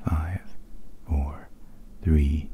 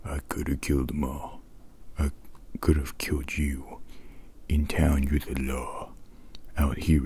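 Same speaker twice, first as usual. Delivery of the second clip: a hint of gruff Rambo, all in whisper; lightly voiced Rambo menace, whispered. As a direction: growl it as Rambo but only breathe it. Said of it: "I'll try to do the voice in the most A S M R voice way possible".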